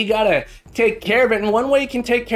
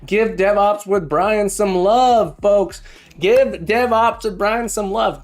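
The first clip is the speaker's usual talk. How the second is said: hype announcer. Acted. Hypes up a raid guest.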